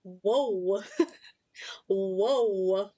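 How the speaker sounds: lightly voiced startled old fella; old man voice. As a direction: play a jumpy old man. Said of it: "an old fella".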